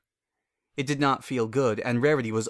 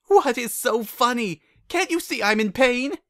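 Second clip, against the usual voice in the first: indignant; 12 semitones higher, 4 dB louder than usual. Acted. Rarity annoyed at laughing.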